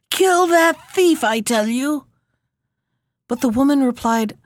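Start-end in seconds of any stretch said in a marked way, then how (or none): 0.1-2.1 witch calling out. A narrator's reading. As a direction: bark the order down from the window. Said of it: "she called out to the woman".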